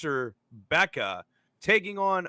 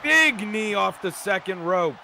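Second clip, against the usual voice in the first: wrestling commentator; 3 semitones higher than usual. Acted.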